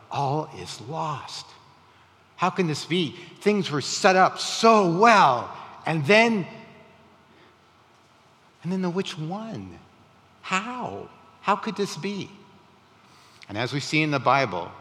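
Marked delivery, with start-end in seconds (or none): 0.1-6.5 anguished disbelief, rising higher from a slow start; retold despair. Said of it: "I remember that despair". 8.6-12.3 high, softened disbelief; retold despair. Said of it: "I remember that despair".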